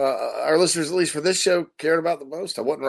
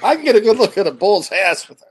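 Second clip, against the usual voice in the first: put-on Tommy Boy quote; 3 semitones higher than usual. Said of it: "the official quote".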